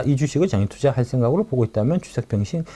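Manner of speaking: ordinary delivery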